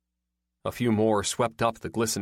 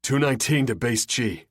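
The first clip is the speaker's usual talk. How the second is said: deep radio voice; 3 semitones higher, 4 dB louder than usual. A narrator's reading. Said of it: "A deep voice broke through".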